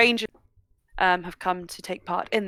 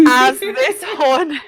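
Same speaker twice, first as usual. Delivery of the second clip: horn noise; 6 semitones higher, 7 dB louder, much slower than usual. Shown as a demonstration. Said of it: "That's my horn noise".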